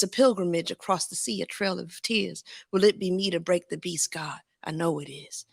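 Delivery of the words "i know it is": a hushed whisper to God. Acted. Speaking softly to God, whispered. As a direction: breathe the words, no voice. Whispered aside in spoken poem.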